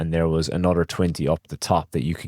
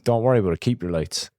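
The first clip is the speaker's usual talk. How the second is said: stubborn retort; 4 semitones higher, faster than usual. Retold or imitated. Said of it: "in stubbornness as well".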